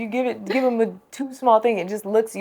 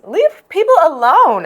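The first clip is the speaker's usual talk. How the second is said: exasperated plea; 9 semitones higher, 7 dB louder, slower than usual. Real, not acted. Defending Rihanna from magazine shaming.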